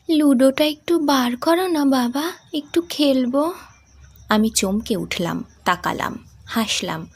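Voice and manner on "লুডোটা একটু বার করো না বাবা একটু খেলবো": put-on young daughter. Daughter answering her father on the train, higher. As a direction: play the young sick daughter.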